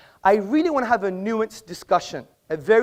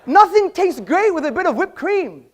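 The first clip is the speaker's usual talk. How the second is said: raised voice with a laugh through it; 9 semitones higher, 4 dB louder than usual. Real, not acted. Joking with the laughing audience, amused laughing delivery. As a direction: chuckle while landing the joke.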